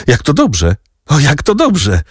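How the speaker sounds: put-on high, delighted boyish cry; boy's delight. A narrator's reading. Boy hearing the adults will stay together, overjoyed. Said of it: "ucieszył się chłopak".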